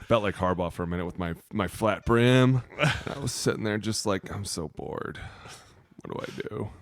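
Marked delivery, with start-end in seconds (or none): 4.3-6.7 mock bored whine. Whining on the couch.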